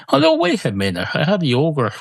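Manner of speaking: jumps way up in pitch, caught short; a sudden "oh hang on" thought; sudden realisation. Real, not acted. Realising the yogurt counts, sudden surprise.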